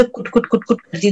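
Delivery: softly tapped kut kut; plain quick kut kut; hen pecking sound. Shown as a demonstration. Teacher telling children how the hen pecks, plain kut kut. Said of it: "मुर्गी दाना चुगती तो कैसे".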